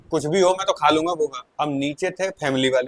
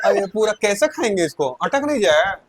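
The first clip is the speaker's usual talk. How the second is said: laughing complaint; 4 semitones higher, 4 dB louder than usual. Retold or imitated.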